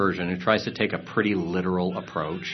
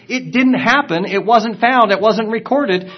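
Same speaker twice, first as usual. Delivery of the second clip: dismissive scholar; 12 semitones higher, 9 dB louder than usual. Retold or imitated. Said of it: "basically what you're saying is".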